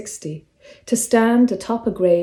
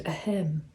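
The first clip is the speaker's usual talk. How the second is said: polite throat-clear; 2 semitones lower, 10 dB quieter than usual. Acted. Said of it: "And then that cough".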